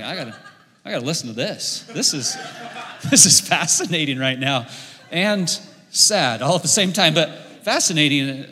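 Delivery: chuckling through the words; laughing in disbelief at the scene; laughing aside. Real, not acted.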